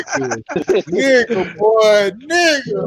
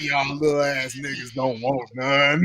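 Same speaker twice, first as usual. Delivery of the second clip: coach taunting; 8 semitones lower, 6 dB quieter than usual. Retold or imitated.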